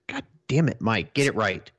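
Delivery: mock scolding. Mock scolding co-host over name.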